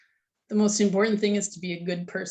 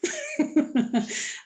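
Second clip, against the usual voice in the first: shaky sigh; 8 semitones higher than usual. Real, not acted. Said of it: "I'm gonna try not to cry".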